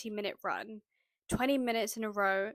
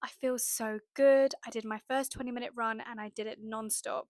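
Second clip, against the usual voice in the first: excited. Pretend. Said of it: "texting my friend and saying".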